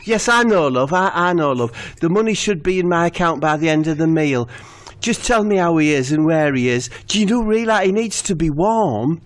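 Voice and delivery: high, pleading Steve; voicing Steve.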